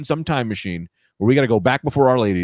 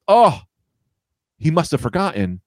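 relieved waking woman; 4 semitones higher than usual. Acted. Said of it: "they wake up and they go".

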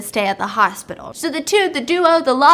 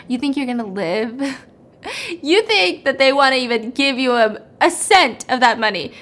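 evil laughing taunt. Retold or imitated. Tied-up Simi mocks Akash with an evil laugh. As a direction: sneer through an evil laugh. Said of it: "laughing this evil laugh".

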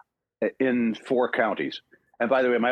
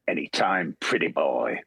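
tough-guy line; 6 semitones lower, slower than usual. Retold or imitated. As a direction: drop it low and cool, like a challenge. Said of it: "these lines that I've heard".

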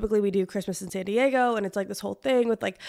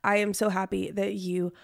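under the weather; talking through a cold, sore throat; sick voice. Real, not acted. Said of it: "if I sound under the weather".

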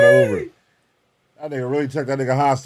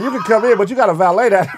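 loud, raised-pitch mock announcement; acted joke quote; 4 semitones higher, 6 dB louder, faster than usual. Joker voicing someone greeting the iron lung man, loud mock call. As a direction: call it out as the other person. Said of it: "They're like".

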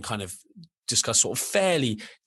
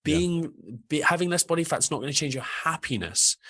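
pitched-up, emphatic tough love; loving shake-up; 3 semitones higher than usual. Retold or imitated. Coach telling dieters to stop, emphatic tough love. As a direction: shake them awake, but kindly. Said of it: "shake people in a loving way and be like".

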